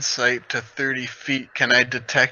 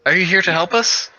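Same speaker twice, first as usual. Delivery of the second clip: higher, louder insect voice; centipede voice; 5 semitones higher, 5 dB louder than usual. Acted. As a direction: ask it like a giant centipede. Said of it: "speak to him in my centipede voice".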